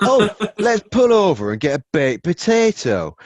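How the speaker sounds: loud, high mock Yorkshire accent; hammed-up Yorkshire, pitched high and loud. Driver suggesting a stop for food, hammed-up Yorkshire accent. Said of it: "Is that what that accent was?".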